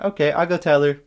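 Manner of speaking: put-on high, loud tattling kid; imitated little kid. Little kid off to tell mom, imitated tattling. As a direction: pitch it up like a child threatening to tell. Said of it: "the little kid was like".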